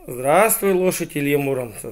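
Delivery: very polite hedgehog. Acted. Hedgehog greets a hero's horse, very politely. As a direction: greet even the horse with full courtesy. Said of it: "жил очень вежливый ёжик".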